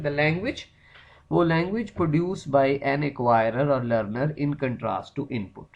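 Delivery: reading a definition slowly for notes; slow dictation. Shown as a demonstration. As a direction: drag each word so the class can copy.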